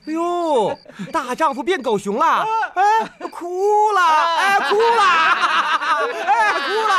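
大笑着起哄，声音很高很响; 边笑边嘲弄他哭了; jeering laughter. Acted. Bullies jeer at crying boy. (师兄们嘲笑他哭鼻子，放声大笑)

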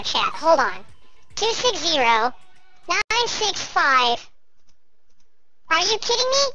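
sped-up chipmunk voice effect; squirrel voice filter. Real, not acted. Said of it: "I had the squirrel voice on".

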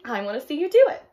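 keen to watch, voice lifted; excited. A narrator's reading. Pollywog eager to watch caterpillar change, excited. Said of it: "the pollywog said excitedly".

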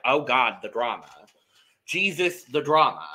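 lightly overwhelmed, punching each exclamation; mock exasperation. Host reacting to contestants' feud, mock exasperation. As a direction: exclaim in playful dismay.

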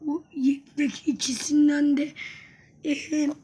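rough, strained hoarse voice; talking through a sore, hoarse throat. Real, not acted. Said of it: "Bu arada sesim kısık".

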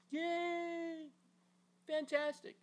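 high, excited cheer. Acted. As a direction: throw your arms up and cheer. Father cheering son's return.

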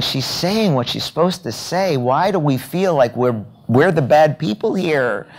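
puzzled inner thought. Retold or imitated. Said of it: "And I'm listening going".

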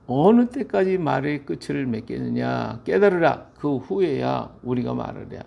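mock-stern scolding, peaking mid-speech; retold reproach with an emphatic middle; acted rebuke. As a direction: demand sternly, as if quoting an accuser. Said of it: "이제 그렇게 책망하는 거예요".

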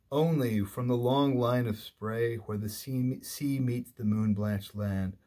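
sustained, measured reading of verse; poem recitation. Acted. Lecturer reading the second stanza aloud, in measured recitation. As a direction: recite the lines, letting the long sentence roll on.

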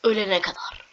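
hushed run run run; whispered urging. Real, not acted. Gamer whispering at the character to run. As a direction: whisper it to push yourself on.

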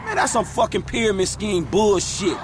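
scornful outburst. Acted. Gang members arguing about respect.

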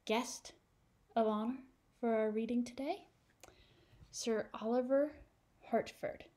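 building up a grand guest reveal; excited announcement. Real, not acted. Announcing special guest to children.

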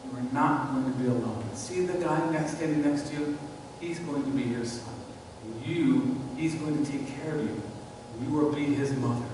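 soft, gentle voice of Jesus comforting his mother; tender reassurance. Retold or imitated. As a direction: speak it softly, like a son reassuring his mother.

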